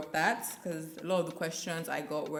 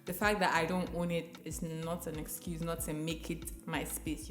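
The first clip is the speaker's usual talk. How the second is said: slight lisp from a retainer; talking with a retainer in. Real, not acted. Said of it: "I have a retainer, so I have a bit of a lisp".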